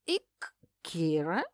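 медленно, с икотой и вопросительным подъёмом; не верит, что его нашли; недоверчивый вопрос. A narrator's reading. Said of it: "недоверчиво вопросительное из угла". (недоверчиво, с икотой)

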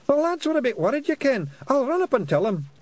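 high, loud Scottish pixie; squeaky little Scots fairy. A narrator's reading. Pixie figure voice.

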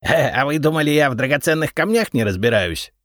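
изумлённый высокий голос кладовика; искренне удивиться; изумлённо. A narrator's reading. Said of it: "изумился Репей". (удивлённый кладовик)

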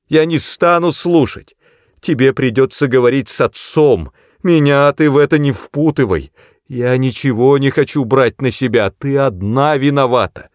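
high, loud, hysterical scolding; yelling. A narrator's reading. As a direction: shout down the daughter in panic. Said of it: "вопила мать".

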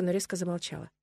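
ordinary delivery

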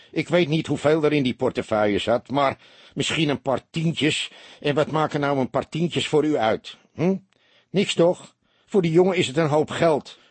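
earnest pleading. A narrator's reading. Barman pleads for the boy. (dringend pleidooi, met hoge stem)

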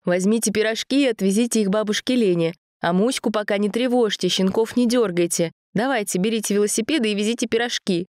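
high brisk granny orders; lightly voiced bossy grandma; grandma instructing. A narrator's reading.

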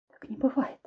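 tearful whisper. Acted. Ksyusha whispers in denial, wiping her tears. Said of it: "шептала я".

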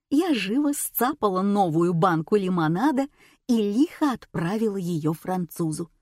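plain reading voice

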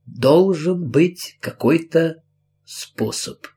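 slow, drawn out, fading to a breath on "способ"; slowly. Acted. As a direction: let "способ" die away unvoiced. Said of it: "медленно говорила она".

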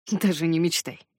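dry. Acted. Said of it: "сухо отозвался я".

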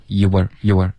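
"you are" sliding straight to r, no w between; direct glide. Shown as a demonstration. Teacher demonstrating the fix, linked "you are". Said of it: "直接滑到儿".

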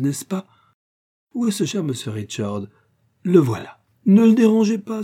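lightly voiced, breathless old gossip; a hint of a fussy spinster gushing to everyone; chattering old spinster. Miss Bates chatters at the ball. (bavarde vieille fille, à peine jouée)

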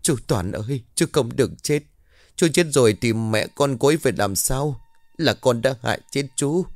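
crying guilt over his death; sobbing lament. Acted. Mai sobs over the dead servant, tearful lament. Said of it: "rồi nức nở".

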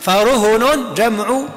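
فرهن drawn out very slowly, each sound clear; plural reading. Shown as a demonstration. Teacher stressing the plural reading فرهن. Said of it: "رهن بالجمع".

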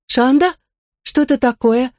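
high rising question; puzzled. Acted. Girl hearing a strange name, surprised. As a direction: ask it surprised, pitch jumping up.

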